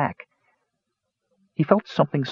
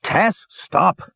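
raised, pleading dwarf voice; dwarf calling stop; 10 semitones higher than usual. A narrator's reading. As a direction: call out to stop him. Flint shouting at Tass.

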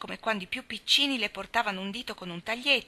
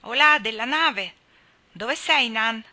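louder, slow hail; calling from below; 4 semitones higher, 8 dB louder, slower than usual. A narrator's reading. Boy calling up to the girls in the tree, loud hail. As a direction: call up loud like a sailor. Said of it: "chiamò dal basso una voce".

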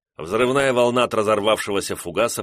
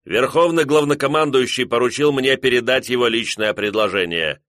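firm, raised commanding voice; stern officer proclamation; 3 semitones higher, 3 dB louder than usual. Acted. Officer announces ultimatum to mutineers.

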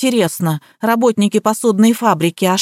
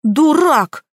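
sharp, high angry cry; high-pitched angry "Дурак!"; angry outburst; 7 semitones higher than usual. A narrator's reading. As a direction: snap the insult at him. Bride insults the gardener.

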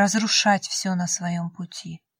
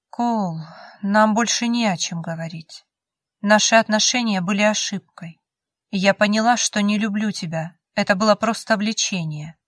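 trying to sound confident; 4 dB louder than usual. Acted. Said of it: "Я старалась говорить уверенным голосом".

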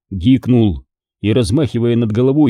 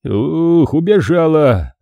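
relieved sigh; 5 semitones higher, slower than usual. Acted. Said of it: "облегчённо вздохнул Демьян".

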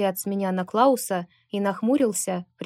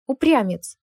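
loud scolding cry, higher; stamping foot; 4 semitones higher, 5 dB louder than usual. A narrator's reading. Maria scolds stubborn Lucas, loud and high. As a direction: snap it, stamping your foot. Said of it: "топнула я ногой".

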